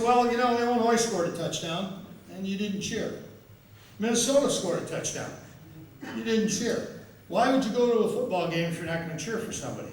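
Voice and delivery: high, lightly voiced old fan teasing; a hint of a nosy old fan; old fan needling.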